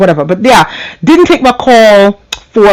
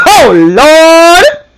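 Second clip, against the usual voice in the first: excited exclaim; 9 semitones higher, 4 dB louder than usual. Real, not acted. Reacting to her own story.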